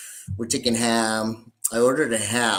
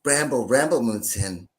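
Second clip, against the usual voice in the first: feminine voice. Acted. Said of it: "why you did it in that feminine voice".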